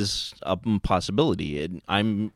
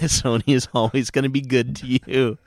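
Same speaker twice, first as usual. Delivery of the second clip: higher singsong assurance broken by laughter; jokily reassure, chuckling between phrases; mock reassurance; 5 semitones higher, 3 dB louder than usual. Quoting another podcast on Sony, mock reassuring. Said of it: "as has been said by another podcast".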